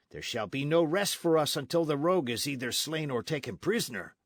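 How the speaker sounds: lightly voiced blunt soldier; a hint of a swaggering sergeant; sergeant Gonzales. Sergeant explaining the chase to Don Diego, lightly voiced. Sergeant lays out pursuit plan.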